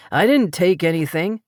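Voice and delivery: lightly voiced man denying it; a hint of a baffled stranger; protesting stranger. A narrator's reading. Stranger denying the theft to Paris, lightly voiced.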